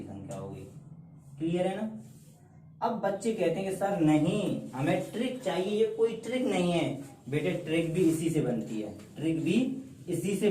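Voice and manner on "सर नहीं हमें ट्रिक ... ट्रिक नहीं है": higher-pitched imitation of complaining pupils; mock student protest. Students demand a trick from sir, mock protest. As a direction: act out students objecting, pitch raised. Acting out students objecting to teacher.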